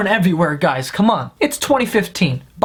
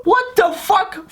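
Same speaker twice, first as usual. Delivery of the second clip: much higher, slow put-on squeal; mock disbelief; 11 semitones higher, slower than usual. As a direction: stretch it out in fake shock. His mocking reaction.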